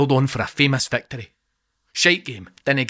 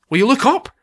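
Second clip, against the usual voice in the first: much higher, louder alarmed call; urgent shout; 12 semitones higher, 7 dB louder than usual. Acted. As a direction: snap him to attention. Urgent warning to Aldo.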